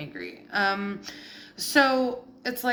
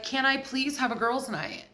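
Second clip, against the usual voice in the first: higher-pitched mock plea for permission; mock pleading; 4 semitones higher than usual. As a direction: ask permission in a put-upon, higher voice. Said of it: "again, this is you".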